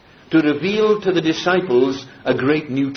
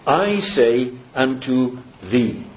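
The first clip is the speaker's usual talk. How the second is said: I leaned on, slow solemn delivery; slow down and weight the I; emphatic I; 3 semitones lower, slower than usual. Shown as a demonstration. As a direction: stress "I", then measured words. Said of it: "here's an emphatic".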